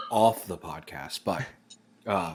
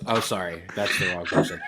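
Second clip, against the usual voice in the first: usual speaking voice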